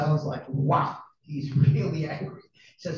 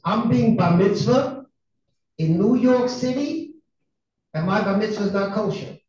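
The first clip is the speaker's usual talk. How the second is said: put-on boy's complaint; 4 semitones higher, 4 dB louder than usual. Boy complains to his father.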